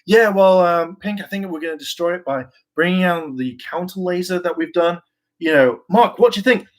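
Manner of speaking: teammate butting in. Retold or imitated. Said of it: "go like".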